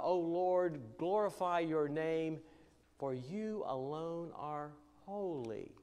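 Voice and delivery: measured, reverent Bible reading from the pulpit; scripture reading. Acted. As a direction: read it out as holy words. Reads Revelation passage aloud.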